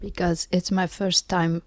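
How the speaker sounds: scratchy, whispery sick voice; hoarse whisper. Real, not acted. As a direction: speak through a lost, scratchy voice. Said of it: "listen to this scratchy voice".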